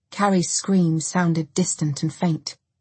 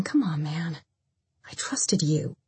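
hushed, softer reproach; hurt reproach; 5 dB quieter than usual. A narrator's reading. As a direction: quietly let them feel the betrayal. Carrie confronts Dennis, hurt.

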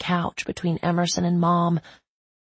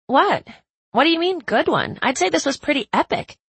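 surprised; 8 semitones higher than usual. Acted. Caroline startled, defensive.

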